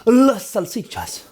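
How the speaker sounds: put-on Spanish accent. Spanish word for sausages.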